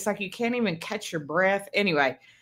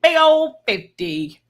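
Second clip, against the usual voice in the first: excited; 8 semitones higher, 7 dB louder, slower than usual. Real, not acted. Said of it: "I'm excited about it".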